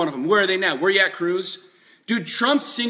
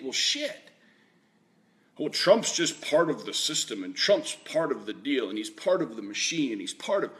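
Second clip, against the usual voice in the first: mock naive thinking; 6 semitones lower, 5 dB quieter than usual. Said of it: "you'd think".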